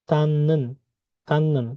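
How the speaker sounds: তান্নুন with a held double n; Korean word pronounced. Shown as a demonstration. Teacher repeats the word for students, tan-nun. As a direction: model তান্নুন clearly for repeating. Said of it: "এটার উচ্চারণ তাহলে কি হবে?".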